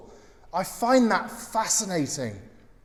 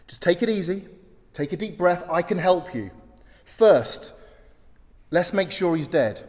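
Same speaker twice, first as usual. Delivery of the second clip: calm soothing voice. Retold or imitated. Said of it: "In a calm, soothing voice".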